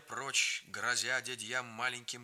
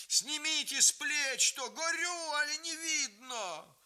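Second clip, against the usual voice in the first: high, loud, coughing shout; hoarse shout; 13 semitones higher, 3 dB louder, slower than usual. A narrator's reading. Grandmother ordering grandfather from the fire, hoarse. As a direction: shout it through the smoke.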